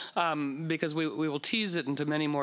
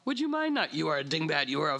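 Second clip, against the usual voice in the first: backstage subtext; faster than usual. Retold or imitated. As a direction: let the hidden contempt show through. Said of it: "the backstage dynamic is".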